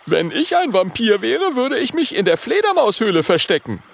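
put-on young dragon boy peeking out. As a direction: call out cheekily from hiding. Oskar voiced.

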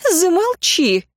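high, sudden cry of замолчи; sharp cry to be silent. A narrator's reading. Old woman silencing Lyuciana about her great-grandson, high sharp cry. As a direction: stop her short with one high outcry. Marьyana cut off by secrets.

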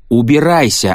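high, loud yell. A narrator's reading. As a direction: scream him away. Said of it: "орал Эд".

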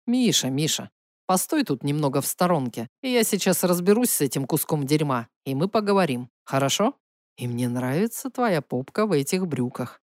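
low, soft, tender hero. Acted. Misha, low, close to ear.

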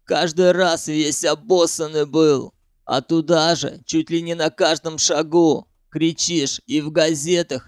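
ordinary delivery, nothing marked

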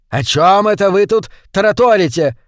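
громкий окрик, выше; рявкни из соседней комнаты; гаркнул. A narrator's reading. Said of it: "гаркнул захолуст". (хозяин гаркает на слугу из соседней комнаты)

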